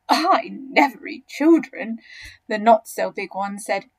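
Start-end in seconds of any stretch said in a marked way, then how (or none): 0.1-2.0 not so big crocodile, disapproving. Acted.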